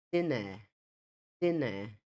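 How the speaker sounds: British "dinner" with silent r; non-rhotic British dinner; British pronunciation. Shown as a demonstration. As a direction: say dinner as "DIN-uh". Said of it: "A última que eu falei foi o inglês britânico".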